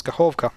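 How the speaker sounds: Kachovka with the O stressed. Shown as a demonstration. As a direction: put the weight on the middle O of Kachovka. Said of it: "emphasis is on O".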